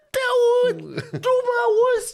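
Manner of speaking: very high, loud shouted reply; frantic shout. Retold or imitated. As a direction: yell it back in frustration. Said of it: "Și țipa și mai tare".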